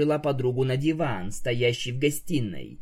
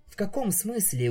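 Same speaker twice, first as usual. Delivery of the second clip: surprised; 7 semitones higher than usual. Acted. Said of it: "удивилась вампирша".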